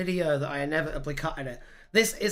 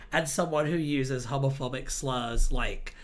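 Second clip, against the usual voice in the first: ordinary talk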